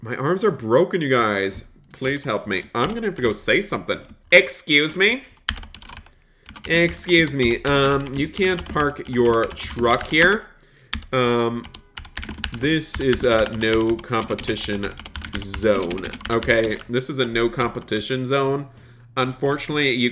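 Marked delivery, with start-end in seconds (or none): 4.3-16.0 mock-offended complaint; confronting rival. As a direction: tell off the rival truck driver. Confronting rival food truck.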